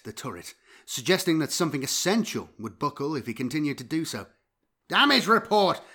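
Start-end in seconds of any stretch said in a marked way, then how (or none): 4.9-5.8 loud, urgent command shout; shouted order. A narrator's reading. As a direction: bark the order over the noise. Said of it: "Rossman shouted".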